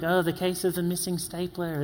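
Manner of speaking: lightly put-on Australian accent; mock Australian accent. Speaker joining coworkers' stapler joke, mock Australian accent. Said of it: "weird Australian accent".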